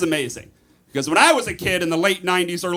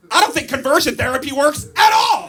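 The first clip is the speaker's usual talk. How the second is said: mock heckle; 5 semitones higher, 3 dB louder than usual. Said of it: "you'd probably be like".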